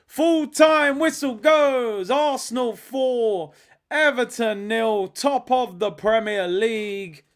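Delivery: loud, high, drawn-out final-score call; triumphant commentary. Real, not acted. Streamer calling Arsenal's win to viewers, triumphant drawn-out shout. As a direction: stretch every phrase into a slow, jubilant shout.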